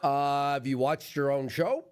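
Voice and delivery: mock retort. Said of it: "I'd be like".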